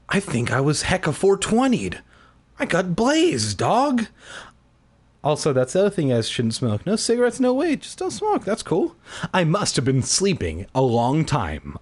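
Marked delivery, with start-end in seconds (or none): 0.1-4.1 stoner voice. Acted. Stoner joke. 6.9-8.9 mock PSA voice.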